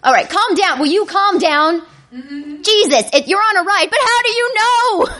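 high, frantic voice with bursts of laughter; panicky self-talk. Acted.

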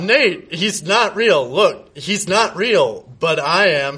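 a hammed-up lover's moan; slow mock moaning. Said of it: "he moaned".

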